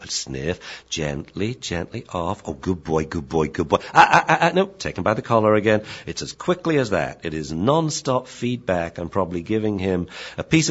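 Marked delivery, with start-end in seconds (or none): 0.9-3.8 soothing dog praise. Shown as a demonstration. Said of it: "give them a running commentary". 3.9-5.8 loud, fast warning to the dog; sharp correction. Shown as a demonstration. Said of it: "give them a running commentary".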